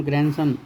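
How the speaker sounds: "ग्रैंडसन" with no d sound, as "gran-san"; silent D. Shown as a demonstration. Teacher showing students grandson, D left out. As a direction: say "ग्रैंडसन" as gran-sun, dropping the D. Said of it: "इसको बोलते हैं हम ग्रैंडसन".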